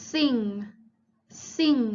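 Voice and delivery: "sing" ending in a nasal ng, no hard g; final ng sound. Shown as a demonstration. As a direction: model "sing", closing on ng as in Thai ง. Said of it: "ออกเสียงเหมือนงองู".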